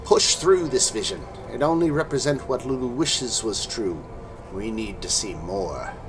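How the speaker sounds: urgent hag voice in the mind; old hag. Acted. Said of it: "the voice of the hag fills your mind".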